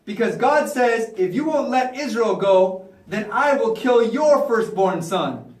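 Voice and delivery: slow, deliberate threat; threatening. Acted. Moses threatens Pharaoh over Israel, slow deliberate warning. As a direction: issue a measured warning from God. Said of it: "they even tried to make threats".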